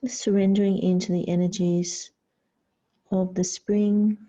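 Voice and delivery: calm yoga instruction with long pauses; guided meditation. Real, not acted. Yoga teacher guiding the class into child's pose, guided meditation. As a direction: guide them to surrender, phrase by unhurried phrase.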